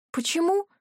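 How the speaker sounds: high, bewildered cry; astonished. Acted. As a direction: ask it in stunned disbelief. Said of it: "воскликнула изумлённо".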